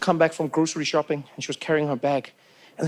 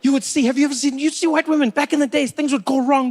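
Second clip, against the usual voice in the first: ordinary delivery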